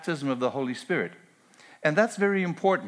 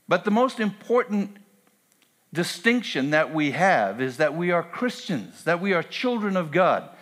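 preaching; 2 semitones higher than usual. Acted. Pastor insisting to the congregation, emphatic preaching. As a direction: drive the point home to the church.

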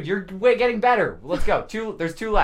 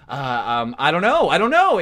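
imitating hesitant stalling; 2 semitones lower than usual. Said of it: "just going like".

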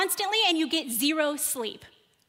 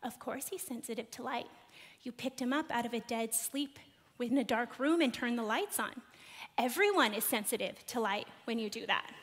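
soft, level husband's reassurance; calm; 2 semitones lower, 6 dB quieter than usual. Retold or imitated. Husband calmly reassuring his panicking wife: soft calm reassurance. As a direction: settle her down gently. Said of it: "very calmly says".

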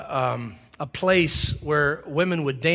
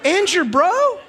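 high, loud, incredulous, laughing; loud, laughing mock outrage; mock indignation; 5 dB louder, slower than usual. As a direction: tease him like a shocked friend. Mock-scolding Jesus for dissing mom.

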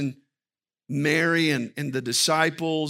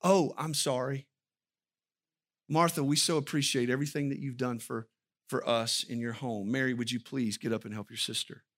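gentle appreciation; 3 semitones lower, 5 dB quieter than usual. Retold or imitated. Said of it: "wanted Jesus to go".

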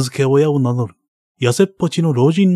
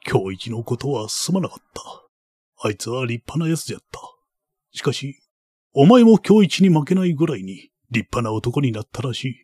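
put-on creaky wise old man. Baron consoles the boy.

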